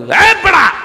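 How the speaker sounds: sudden high, loud yell from hell's angel; angel's angry yell. Acted. Hell's angel yelling at a man dancing on the bridge, high angry shout. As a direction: yell up at someone, high and hard. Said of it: "জাহান্নামের ফেরেশতা তখন".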